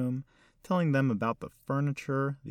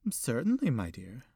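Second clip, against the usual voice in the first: put-on elderly lady; 2 semitones higher than usual. Old hostess voiced by narrator.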